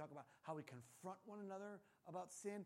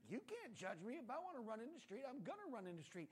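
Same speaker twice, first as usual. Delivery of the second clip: put-on high-pitched defiant little kid; mock childish insistence; small child; 5 semitones higher than usual. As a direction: protest like a stubborn child, pitched up. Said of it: "If you have small children".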